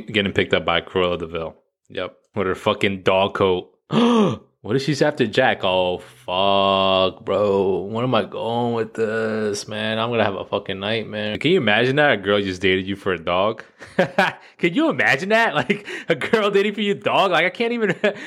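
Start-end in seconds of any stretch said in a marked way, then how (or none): 3.9-4.4 sharp, high intake of breath; sudden gasp. Real, not acted. Sudden worry about his dog. 14.1-18.1 high-pitched words broken by laughter; laughing while talking. Real, not acted. Cracking up at his own idea.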